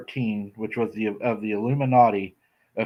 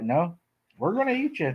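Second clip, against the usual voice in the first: squeaky high teasing voice; high-pitched menace; 7 semitones higher, 4 dB quieter than usual. Retold or imitated. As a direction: squeal it up high like a cartoon villain. Retold menacing reply, pitch jumps.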